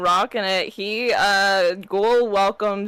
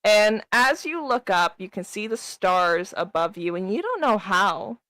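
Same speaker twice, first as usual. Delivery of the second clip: game master narration. Acted. DM narrates scene.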